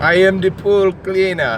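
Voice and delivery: slow mock Brazilian accent; stereotypical accent. Host echoing co-host's pool cleaner, mock Brazilian accent. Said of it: "It's a stereotypical sort of".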